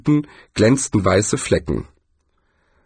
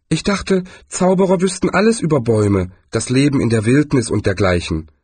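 a higher, mildly reproachful Zweiblum; lightly voiced reproach; 3 semitones higher than usual. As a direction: chide the wizard with a raised voice. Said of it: "sagte Zweiblum vorwurfsvoll".

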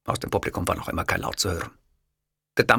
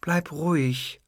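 gently firm; 6 semitones higher, slower than usual. Acted. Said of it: "mit einer eigentümlich sanft energischen Stimme".

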